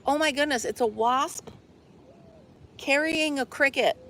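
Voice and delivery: high, wide-eyed surprise at a wasp; real startled wonder; startled amazement. Real, not acted. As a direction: gasp it out as you spot it. Spots wasp carrying cricket.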